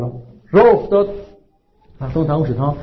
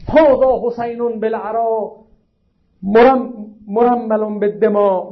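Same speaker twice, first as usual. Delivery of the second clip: slow, drawn-out declamatory cry, raised in pitch toward the end; imitated outcry, stretched word by word; retold crying out; 3 semitones higher, slower than usual. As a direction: recite it as a long lamenting call. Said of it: "فریاد زد".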